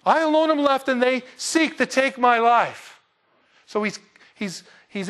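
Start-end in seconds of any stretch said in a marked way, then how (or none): 0.1-3.0 mocking Elijah. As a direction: drag it out like a scared prophet feeling sorry for himself. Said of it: "the dudette freaks you out?".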